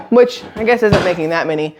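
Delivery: hiccups breaking the words; hiccuping. Real, not acted. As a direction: talk through the hiccups. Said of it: "I have the hiccups".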